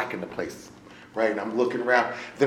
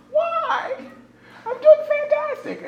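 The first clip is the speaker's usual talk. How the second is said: mock denial; slower than usual. Mocking his own denial.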